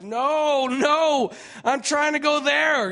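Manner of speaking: high, loud panicked cry of no; loud retold protest; alarmed shout. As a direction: shout it as the being rushes at you. Shouting as being tackled in vision.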